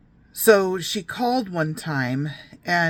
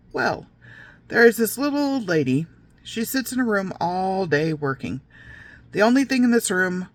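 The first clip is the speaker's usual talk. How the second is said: mother telling a creepy tale; 3 semitones higher than usual. Retold or imitated. Mother teasing her little girls with a gross tale, mock storyteller voice. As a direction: relish the build-up like a mock storyteller.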